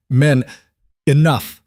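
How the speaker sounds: king roaring at the guards to stop; thunderous command. A narrator's reading. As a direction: crack the word through the hall like thunder. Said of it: "The word cracked through the corridor like thunder".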